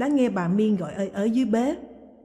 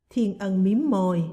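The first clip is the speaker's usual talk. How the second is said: ordinary delivery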